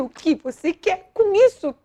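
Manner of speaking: pergunta a Deus gritando, mais alto; grito com Deus. Retold or imitated. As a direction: desafia Deus aos gritos. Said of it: "Eu só dizia". (gritando com Deus, mais alto)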